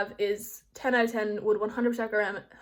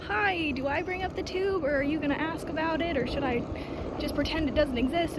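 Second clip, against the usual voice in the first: awkward; 5 semitones higher than usual. Retold or imitated. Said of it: "that awkward".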